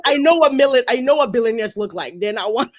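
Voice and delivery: a touch of mock outrage; indignant mock quote. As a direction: play his outraged comeback. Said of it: "He's like".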